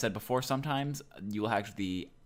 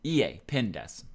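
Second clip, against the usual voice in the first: "Iie, pin desu." spaced out slowly, each word clear; slow careful demo. Shown as a demonstration. Teacher slowly modelling the answer for students. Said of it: "So you're saying".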